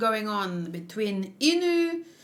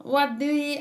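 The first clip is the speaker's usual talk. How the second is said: put-on high, testing pirate-accent "ye"; mock pirate accent, pitched up; attempted pirate accent; 4 semitones higher than usual. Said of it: "I don't know how to do ye".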